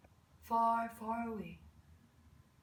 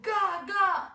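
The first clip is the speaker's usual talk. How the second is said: put-on high, loud baby wail; loud, high toddler cry; crying baby babble; 8 semitones higher, 8 dB louder than usual. A narrator's reading. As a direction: wail it like a fussing infant. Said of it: "started to cry and cry again".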